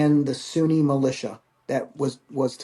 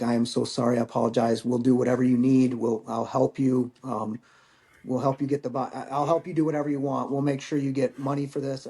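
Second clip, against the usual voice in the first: pleading; 2 semitones lower than usual. Retold or imitated. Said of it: "he was pleading his case".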